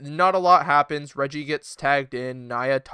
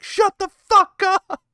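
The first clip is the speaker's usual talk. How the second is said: much higher, louder, slow snap; mock outburst; 6 dB louder, slower than usual. Retorting to Bayley on TV, mock outburst. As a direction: blurt it in exaggerated annoyance. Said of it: "I'm like".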